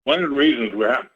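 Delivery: talking with food in mouth; words blurred by a mouthful; mouth full. Real, not acted. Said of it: "sorry, I have something in my mouth".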